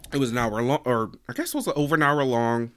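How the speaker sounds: dry throat from coughing; throat needing a cough. Real, not acted. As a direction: talk through a scratchy throat. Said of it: "Sorry, I'm coughing".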